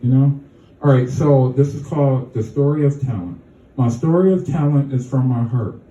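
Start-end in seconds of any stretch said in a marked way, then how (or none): 3.8-5.8 measured poem reading, lines falling at the ends; poem recital. Acted. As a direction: recite your own poem to a small audience. Reads own poem aloud.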